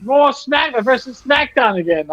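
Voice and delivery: excited fan. Retold or imitated. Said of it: "I'm like".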